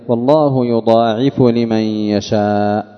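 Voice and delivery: slow, measured tajweed reading; Quran recitation. Shown as a demonstration. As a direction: recite the verse with drawn-out long vowels. Recites the verse. (تلاوة متأنية مع المد)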